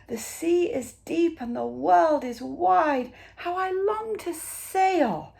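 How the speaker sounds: high, slow, wistful little snail voice; tiny snail longing. Acted. Tiny snail telling the sea her dream, high and wistful. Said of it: "said the tiny snail".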